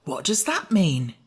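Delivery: slow, dim-witted question; stupidly. Acted. Pumpkinhead puzzled by the pun, slow and dull. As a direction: ask it slowly, a little dull. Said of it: "inquired the Pumpkinhead stupidly".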